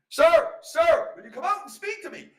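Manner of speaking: loud, high-pitched hail; calling out. Acted. Flanagan calls to the fairy man on the hill, calling out loudly. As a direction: call up to someone far off. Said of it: "he called out to the man".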